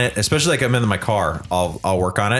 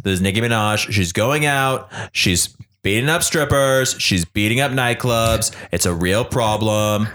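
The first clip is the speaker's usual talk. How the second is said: mock JFK voice; slower than usual. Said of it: "I've definitely have J F K in my head".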